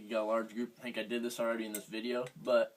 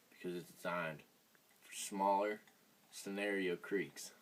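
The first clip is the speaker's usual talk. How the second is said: whisper; 6 semitones lower, 8 dB quieter than usual. Real, not acted. Whispered aside while hunting.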